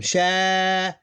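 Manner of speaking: "Sha" alone, held on a high level note; separated syllable. Shown as a demonstration. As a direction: stretch out "Sha" and stop before the second syllable. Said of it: "you can almost separate them".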